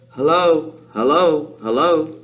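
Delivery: parrot's repeated hello; separate, evenly repeated bird greetings; parrot calling. A narrator's reading. Parrot calling down the chimney to Matilda, parrot voice. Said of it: "the bird called down to her".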